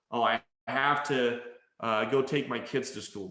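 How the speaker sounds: mildly put-upon parent; forced obligation. Acted. Parent with school run, mildly burdened. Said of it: "That's how you sound".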